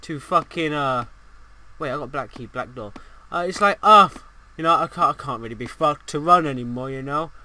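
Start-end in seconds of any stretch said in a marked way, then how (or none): 0.0-1.0 given-up guy. Acted. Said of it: "it's like he's just given up half the time". 3.8-7.3 given-up guy. Acted. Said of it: "he's just given up half the time".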